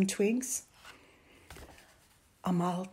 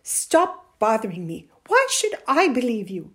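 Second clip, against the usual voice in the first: loud, rough rebuff; 3 semitones higher, 10 dB louder than usual. A narrator's reading. Mother brushes off her pleading son, rough. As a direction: push him away sharply. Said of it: "Her voice was rough".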